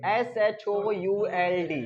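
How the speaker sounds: slow letter-by-letter spelling. Shown as a demonstration. Teacher spells a word for the class, slowly letter by letter.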